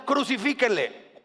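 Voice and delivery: slow, drawn-out mock cry of the mob; the crowd turning cruel, slowed right down; mob demand. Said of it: "decían". (la multitud exigiendo, lento y burlón)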